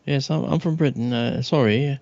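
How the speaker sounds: lightly voiced British man; hesitant British gent stammering; British accent. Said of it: "and, uh, I'm from Britain".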